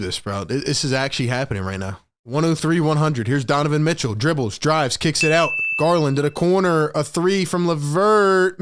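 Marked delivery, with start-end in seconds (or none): 2.2-8.6 steady running game call; play-by-play call. Acted. Streamer calling the game for his chat, play-by-play. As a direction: call the action as it happens.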